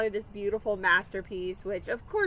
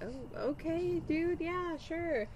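taken aback; 8 semitones higher, 7 dB quieter, much slower than usual. Retold or imitated. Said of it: "And I'm like".

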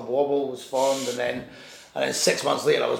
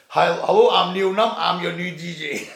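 high, loud, cocky hello; cocky announcement to the receptionist, loud and high; cheeky greeting; 4 semitones higher, 5 dB louder than usual. Retold or imitated. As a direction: announce yourself like a star arriving. Bold self-introduction at reception.

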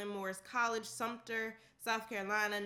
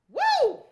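triumphant whoop; 17 dB louder than usual. Real, not acted. Finishing the long list.

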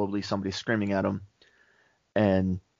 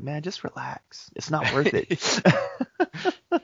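mock zen guru, stretching every word; zen dude; 6 semitones higher, much slower than usual. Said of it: "I'm just zen about everything".

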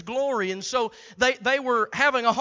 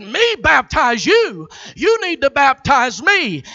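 astonished protest; 5 dB louder than usual. Acted. John's astonished reply.

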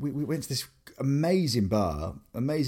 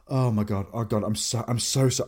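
flustered English. Retold or imitated. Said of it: "I just turned so English".

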